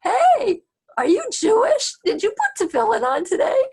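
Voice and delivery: high, loud street hail; acted-out shout to get attention; calling out. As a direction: call across to a passing stranger. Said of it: "he hears a voice calling out".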